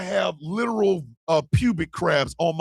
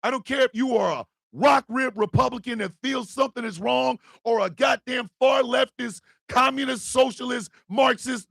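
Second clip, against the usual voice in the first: higher, fired-up exhortation; passionate rally; 5 semitones higher than usual. Real, not acted. Calling all sides to fight together, fired-up rally. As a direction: rouse everyone together.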